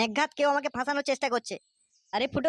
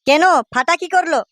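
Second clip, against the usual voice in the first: louder angry back-and-forth; heated argument; 4 semitones higher, 14 dB louder than usual. Acted. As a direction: rage at the other father. Heated quarrel between fathers. (রাগে চেঁচিয়ে ঝগড়া)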